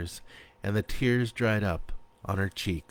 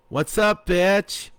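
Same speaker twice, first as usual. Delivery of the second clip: much higher and louder, cheeky; brash greeting; 11 semitones higher, 6 dB louder, slower than usual. A narrator's reading. Hungover best friend greeting Sarah, brash and loud.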